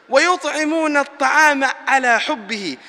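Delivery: rapid chanted Quran verse; quick recitation. Acted. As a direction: recite the verse swiftly in Arabic.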